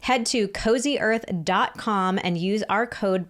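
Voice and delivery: upbeat podcast ad read. Acted. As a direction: sell it like a sponsor spot. Reads a sponsor ad.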